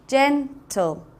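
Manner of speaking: gen... tle, drawn out for the class; slow, syllables split. Shown as a demonstration. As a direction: stretch "gentle" into its two syllables, gen-tle. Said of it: "two syllables".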